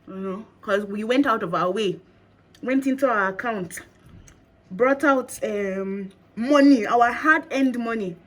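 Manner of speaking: talking while chewing gum. Real, not acted. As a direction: speak around a wad of gum. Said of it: "Sorry if I'm chewing in a".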